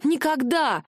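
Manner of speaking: flat refusal thrown back; exclaiming. Acted. Heroine refusing Tern, exclaims never. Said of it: "воскликнула я".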